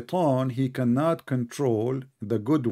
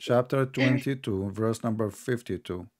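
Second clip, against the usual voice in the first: slow, measured and softer reference; slowly; 2 semitones lower, 4 dB quieter, slower than usual. Shown as a demonstration. Debater repeats the verse reference for his opponent, slowly. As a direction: spell out the citation at an unhurried pace. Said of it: "I have to say it slowly".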